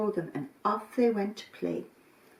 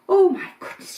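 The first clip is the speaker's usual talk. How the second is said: high, loud amazed relief; overjoyed to find him; relieved exclamation; 9 semitones higher, 8 dB louder than usual. Acted. Mummy Goat finds her kid in the flour, high relieved cry.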